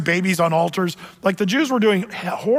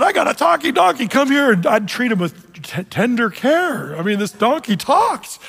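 higher, excited mock Balaam; Balaam's imagined reply; 5 semitones higher than usual. Preacher voicing Balaam delighted with his talking donkey, lightly mock excited. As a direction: gush over the talking donkey. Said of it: "he could have just said".

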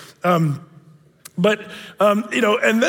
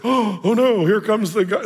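mock surprise; 4 semitones higher, slower than usual. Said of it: "movies make it look like Jesus is surprised".

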